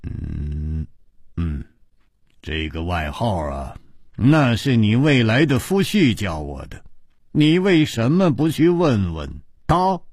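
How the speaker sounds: low grunts, then pointed reply; stern-faced. Acted. Chu Liuxiang answers the princess with a straight face, mildly stern. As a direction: start low and grave, then push the question. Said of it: "他板着脸说".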